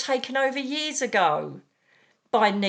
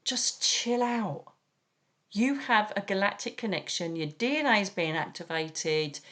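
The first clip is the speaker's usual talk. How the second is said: calming reassurance; 2 semitones lower, 5 dB quieter than usual. Retold or imitated. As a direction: settle a frightened person down. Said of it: "I'm like".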